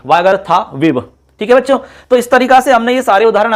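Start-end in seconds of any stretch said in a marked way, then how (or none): 0.1-1.0 वागर्थाविव measured, with a long था; word-building demonstration. Shown as a demonstration. Teacher repeats the finished word for students, demonstration. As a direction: say वागर्थाविव in clear parts, था held. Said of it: "ऐसे बनेगा ये".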